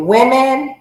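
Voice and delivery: "women" as WIM-in, drawn out; careful pronunciation. Shown as a demonstration. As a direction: say "women" slowly, short i first. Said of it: "am I saying it right?".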